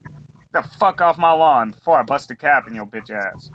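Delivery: lightly voiced old man barking at kids; a hint of a cranky old porch guy; grumpy old man yelling. Old man on his porch cussing at everybody, mild mock yell. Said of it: "cussing at everybody".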